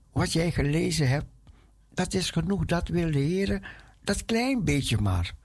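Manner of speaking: ordinary talk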